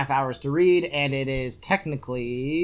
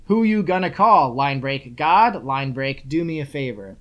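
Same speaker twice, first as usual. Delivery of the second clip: reading book aloud; 3 dB louder than usual. Acted. Host reads the book's first page to co-host, emphatic read-aloud. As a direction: read each line with emphatic lift, announce breaks matter-of-factly.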